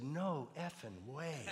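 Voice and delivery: slow, laughing disbelief; woman stunned to learn they are pastors, laughing. Retold or imitated. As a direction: drag it out through a laugh. She hears they are pastors.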